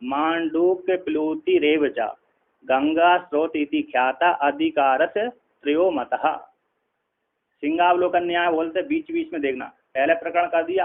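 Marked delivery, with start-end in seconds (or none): 0.0-6.5 shloka recitation. Shown as a demonstration. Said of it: "एक इस-, श्लोक है इसमें".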